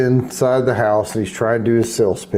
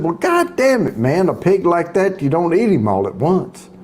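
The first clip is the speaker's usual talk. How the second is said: exasperated punchline; 5 semitones higher than usual. Acted. Exasperated farmer punchline in joke.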